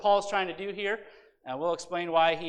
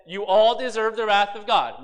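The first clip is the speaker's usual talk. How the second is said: preacher quoting Paul; 3 semitones higher, 8 dB louder than usual. Retold or imitated. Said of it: "He said".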